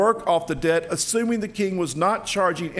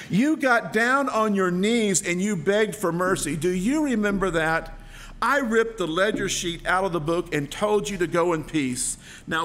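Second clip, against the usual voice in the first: stern rebuking king; 3 semitones higher than usual. Acted. King rebukes unforgiving servant.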